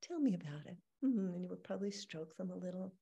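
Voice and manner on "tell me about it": soft caring invitation; tender. Shown as a demonstration. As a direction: coax a child gently. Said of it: "would say".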